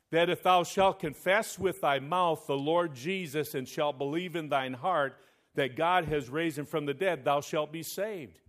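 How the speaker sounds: loud, forceful scripture proclamation; loud preaching. Acted. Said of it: "I'm gonna say it again".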